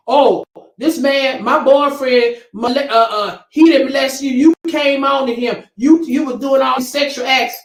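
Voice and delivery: hammed-up impression of a mother defending her boyfriend; mocking the mother's excuse. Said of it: "that's just like saying".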